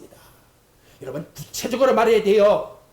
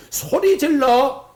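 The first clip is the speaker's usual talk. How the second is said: slow, louder urgent cry; 5 semitones higher, 4 dB louder, much slower than usual. Shown as a demonstration. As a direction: call it out with urgency. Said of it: "긴박성이 있어요". (급박하게 외치듯)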